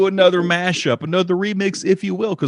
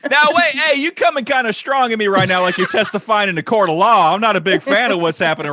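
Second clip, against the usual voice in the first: laughing protest; 6 semitones higher, 4 dB louder than usual. Real, not acted. Jokingly protests being grilled.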